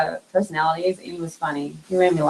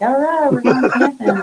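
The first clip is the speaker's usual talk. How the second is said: chuckling as she quotes herself; amused, giggling agreement; laughing through the words; laughing reply; 6 semitones higher than usual. Retold or imitated. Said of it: "I'm like".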